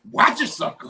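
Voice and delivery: high, laughing imitation of an aunt's warning; squeaky-high mock threat; checking aunt. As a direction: mimic the aunt's catchphrase through laughter. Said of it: "that's her favorite go-to".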